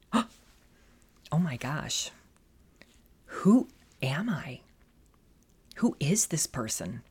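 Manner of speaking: slow, breathless whisper of sudden realisation; shocked whisper. Retold or imitated. Shaken woman whispering to herself at dinner. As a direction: hush it out as if catching yourself. Stunned realisation after husband's remark.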